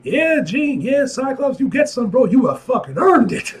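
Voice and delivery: excited cheering. Real, not acted. Cheering the couple on.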